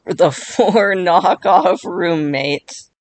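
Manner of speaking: slow, laughing through the words. Real, not acted. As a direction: giggle it out slowly. Laughs at own joke.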